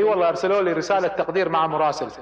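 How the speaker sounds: retelling a relative's dry, bitter sarcasm; sarcastic and bitter. Retold or imitated. Army official quoting his thank-you letter, mildly sarcastic and bitter. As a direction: let the bitterness leak through a mock-polite line. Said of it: "قاعد يقولها بسخرية وبمرارة".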